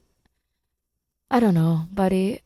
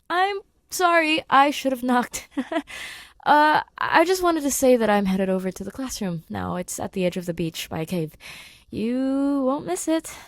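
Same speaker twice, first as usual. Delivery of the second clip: higher, rushed nervous babble; flustered apology; 4 semitones higher than usual. Acted. Grace walking in on shirtless Simon, flustered. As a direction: stammer out an embarrassed sorry.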